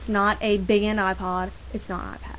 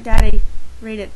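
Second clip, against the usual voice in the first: calling dad; 12 dB louder than usual. Retold or imitated. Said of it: "It's like".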